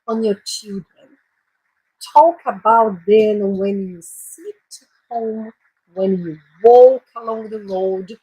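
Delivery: slow, careful English Bible reading for learners; teacher reading a Bible verse aloud to her class, slowly; slow scripture reading. Shown as a demonstration. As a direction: read each phrase slowly so students follow. Rereads the verse.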